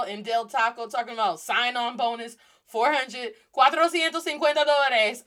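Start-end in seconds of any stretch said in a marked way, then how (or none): 3.6-5.2 loud, higher-pitched disbelief; incredulous. Real, not acted. Former fast-food worker reacting to sign-on bonuses, incredulous. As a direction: belt out the figure in amazed Spanish.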